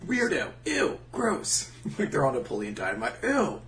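mock disgusted voice.

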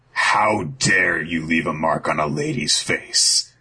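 slow, even hero's rebuke; a hint of a cool, dangerous hero; slow cool menace. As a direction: Sanji rebuking his brother for the lady, slow and cool. Sanji confronts his brother.

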